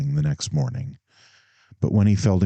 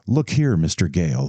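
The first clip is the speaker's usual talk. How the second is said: eager. Acted. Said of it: "he went eagerly on".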